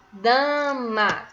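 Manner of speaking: "Dama" drawn out as "daa-ma"; two slow, separate beats on "Dama"; syllable by syllable. Shown as a demonstration. Teacher breaking a word up for pupils, "Dama" syllable by syllable. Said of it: "Eu abri quantas vezes minha boca".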